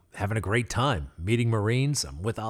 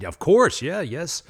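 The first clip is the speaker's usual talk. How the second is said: much higher and louder, bursting with eagerness; eager yes; 9 semitones higher, 8 dB louder than usual. Retold or imitated. Accepting his hero's invitation to the field, eager and loud. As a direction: jump at the offer like a kid.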